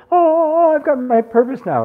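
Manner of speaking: mock the big triumphant purpose moment; mock grand revelation. Teacher mocks people who think they found their purpose, high and loud. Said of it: "Purpose isn't like this".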